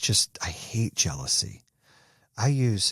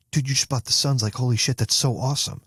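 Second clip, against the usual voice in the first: higher-pitched, thrilled congratulation; happy for a friend; 4 semitones higher, faster than usual. Retold or imitated. Texting friend who bought the Suns, excited. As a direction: imitate an excited text to a buddy. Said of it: "you are happy for somebody else".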